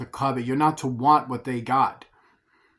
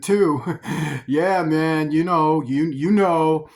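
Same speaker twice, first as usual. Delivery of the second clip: much higher, louder eager flatterer; coveting smooth-talker; 4 semitones higher, 4 dB louder than usual. Retold or imitated. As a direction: slick guy angling for a date. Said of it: "that guy talking for whom I'm emulating".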